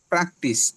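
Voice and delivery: প্র্যাকটিস with a plain Bengali প; unaspirated P. Shown as a demonstration. Teacher showing how learners say it, unaspirated P. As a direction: say প্র্যাকটিস with no air after the P. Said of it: "then আমরা বলি".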